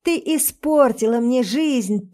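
angry yell. Acted. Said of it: "он продолжает орать".

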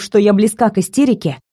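ordinary delivery, nothing marked

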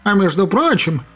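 a purring tomcat voice; cat voice. Acted. Talking cat holds forth.

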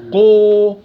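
قو said with a rounded waw vowel, loud; over-heavy قو as an error; wrong qaf demo. Shown as a demonstration. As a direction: show the mistake قو. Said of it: "قو، غلط".

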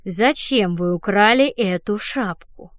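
very slow, over-clear; deliberately slow. Acted. The director questions Fanny as if she were slow, deliberate. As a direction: spell it out as if to someone deaf. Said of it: "Нарочито медленно и чётко спросил он".

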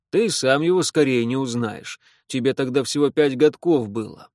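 a hint of a gruff interrogator; lightly voiced stern official questioning. Repnin interrogates the prisoner.

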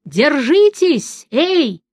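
high, slow drawn-out shout; calling down. A narrator's reading. Bard calls down to the hanging friends, slow high shout. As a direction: stretch the call down to them.

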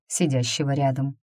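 usual speaking voice

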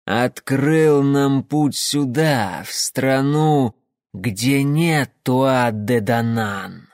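slow, solemn otherworldly voice; eerie creature voice. Acted. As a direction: intone like a creature from the dark. Fomor leader speaking.

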